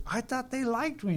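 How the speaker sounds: imitating a sincere, taken-aback man, high-pitched; earnest retold plea, pitched well up. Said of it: "you could tell he was sincere".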